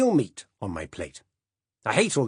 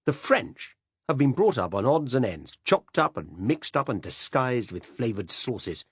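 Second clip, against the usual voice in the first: louder, higher indignant grumble; indignant rant; 5 semitones higher, 5 dB louder than usual. Acted. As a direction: rail against fancy food. Silas ranting about French food.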